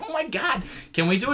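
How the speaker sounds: high-pitched eager pleading; gushing old ladies. Retold or imitated. Old ladies beg reporter for an interview, mock gushing. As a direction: imitate thrilled old ladies begging in a high voice. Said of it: "they're like".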